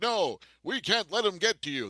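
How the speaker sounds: earnest hero voice, lightly done; a hint of a stiff loyal hero; Cyclops impression. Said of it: "That's my, uh, Cyclops impression".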